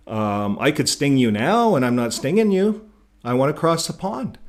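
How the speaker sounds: high, loud earnest promising; pleading scorpion. Acted. Scorpion begging the frog for a ride, high and loud. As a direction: beg the frog to trust you, high and loud.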